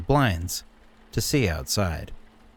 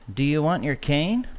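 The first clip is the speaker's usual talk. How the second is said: put-on lightly raised boyish voice; young Sean; 6 semitones higher than usual. A narrator's reading. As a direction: ask with concern, higher. Grandson voiced asking grandpa.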